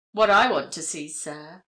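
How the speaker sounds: lightly voiced rustic English countryman; rustic accent. A narrator's reading. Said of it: "he observed in a rustic accent".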